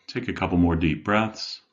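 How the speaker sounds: measured meditation guide with long pauses; guided meditation. Acted. Life coach leading listeners to settle in, guided meditation. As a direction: guide them gently inward, leaving room between phrases.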